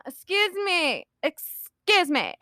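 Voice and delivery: slow, drawn-out drunk imitation; intoxicated. Drunk woman trying to get the zombie's attention, slow and tipsy. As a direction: stretch it out like a tipsy customer. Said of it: "I'm very intoxicated".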